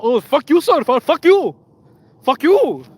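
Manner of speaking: high, loud hammed-up cursing rant; imitating scammer cursing. Scammer caught out, cursing at him in a high mock yell.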